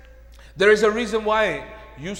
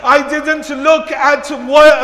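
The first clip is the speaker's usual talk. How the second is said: loud, driving sermon as a pleading parent; dramatic pulpit retelling; impassioned preaching; 8 semitones higher, 13 dB louder than usual. Acted. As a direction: pile up the parent's appeal forcefully. Preaches at full force as pleading parent.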